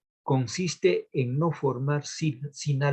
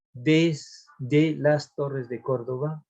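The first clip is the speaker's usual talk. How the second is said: "desde las torres de Córdoba" drawn out syllable by syllable; slow syllable scansion; much slower than usual. Shown as a demonstration. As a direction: stretch the line out to count it. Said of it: "a ver, tenemos uno".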